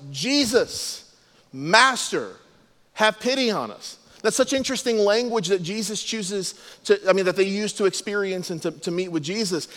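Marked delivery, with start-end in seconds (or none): 0.1-4.0 mildly raised, higher-pitched retold call. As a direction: imitate lepers calling from a distance, without full volume. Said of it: "they called out in a loud voice".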